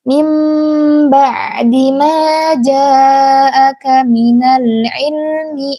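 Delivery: slow, melodic Quran chanting; Quran recitation. Acted. Teacher reciting the verse for the mothers to follow, slow and melodic.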